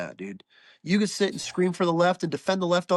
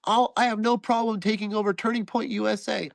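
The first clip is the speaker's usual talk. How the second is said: higher, nasal pundit voice; Shapiro impression; 5 semitones higher than usual. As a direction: mimic a fast-talking conservative pundit. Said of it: "it's actually a pretty good impression right there".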